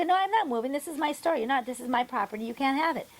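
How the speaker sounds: high-pitched stubborn refusal, a touch indignant; imitating a tough local refusing to sell; defiant shop owner. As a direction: play the owner digging in his heels. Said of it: "And they go".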